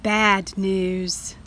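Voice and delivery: low glum bad news; sad. Shown as a demonstration. Teacher reading to children, gloomy. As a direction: let it sink, disappointed.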